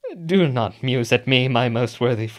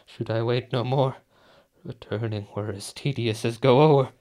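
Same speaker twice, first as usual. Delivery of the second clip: 1 weary murmur; 3 semitones lower, 6 dB quieter than usual. Acted. Weary Macbeth after the banquet.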